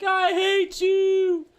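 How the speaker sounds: high, drawn-out, loud wail; angry yell. Acted. Daughter fed up with bossy old mom, high acted yell. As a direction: scream it slowly in hammed-up loathing.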